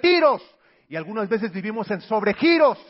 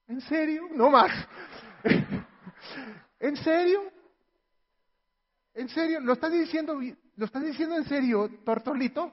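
delighted disbelief; 5 semitones higher than usual. Acted. Wife voiced, surprised delight.

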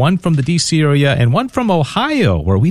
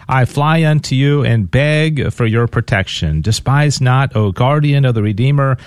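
prayer; 3 semitones lower than usual. Real, not acted. Host leading listeners in prayer, measured and reverent. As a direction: pray it steadily, reverent and measured.

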